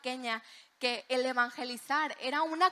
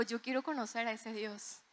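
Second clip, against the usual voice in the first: retold tearful plea; 8 dB quieter than usual. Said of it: "ella estaba empapada en lágrimas".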